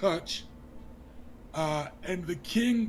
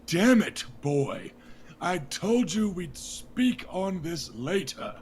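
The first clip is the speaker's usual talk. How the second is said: angry king. Acted. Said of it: "ready to just start yelling".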